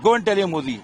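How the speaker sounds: loud, high mocking taunt; terrorist's taunt. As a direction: yell the killer's gloating line at the widow. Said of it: "वहाँ dialogue चल रहा है".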